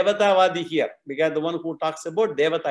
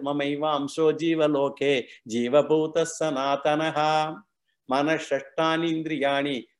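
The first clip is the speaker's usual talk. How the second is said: measured, even-toned Sanskrit verse chant; scripture recitation. Acted. Teacher quoting Krishna's words from Bhagavad Gita, steady recitation. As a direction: recite the verse line by line, evenly.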